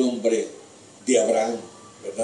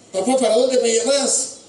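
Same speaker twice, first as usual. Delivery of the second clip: pleading son; 12 semitones higher, 4 dB louder than usual. Acted. Boy Isaac asks his father.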